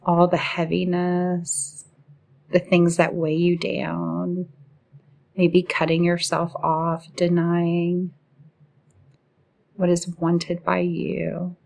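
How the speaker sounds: measured meditation guide, even pitch with long pauses; guided meditation. Acted. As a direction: guide the listener gently into relaxing, phrase by phrase.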